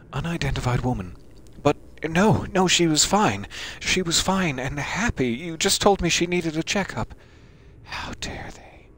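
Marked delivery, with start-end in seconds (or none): 1.6-7.1 a lightly raised, pleading mother's voice; grieving mother. Acted. 7.8-8.9 breathless, shocked whisper. Acted. Mother learns of her baby's death.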